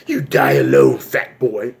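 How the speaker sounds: low menacing clown voice; Pennywise. Acted. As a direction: taunt in a put-on low monster voice. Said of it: "Pennywise is like".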